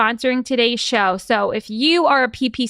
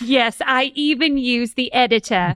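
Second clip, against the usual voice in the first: put-on, not very convincing British accent. Answering a question in a role-play scene, British accent. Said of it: "I don't think that my British accent is good".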